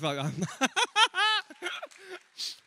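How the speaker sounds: high giggling burst; real laughing fit. Real, not acted. Comic breaking off mid-set, real laughing fit. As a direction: crack up helplessly.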